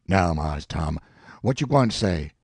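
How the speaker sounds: earnest Jim. Acted. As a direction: lay down the proof like plain common sense. Jim voiced again.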